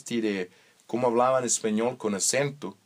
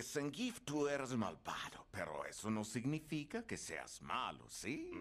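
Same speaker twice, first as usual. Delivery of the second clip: voz interior; 3 semitones higher, 14 dB quieter than usual. Retold or imitated.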